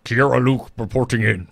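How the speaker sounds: lightly voiced Protoss unit; a hint of Protoss game-unit voice. Podcaster playfully reporting in as a Protoss, lightly voiced Protoss unit. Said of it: "sound like a Protoss name".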